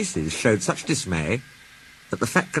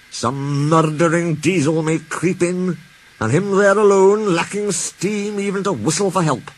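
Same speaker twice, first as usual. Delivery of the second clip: higher, slow fretting engine voice; Donald worried; 7 semitones higher than usual. A narrator's reading. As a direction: voice Donald's fear lightly. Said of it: "said Donald".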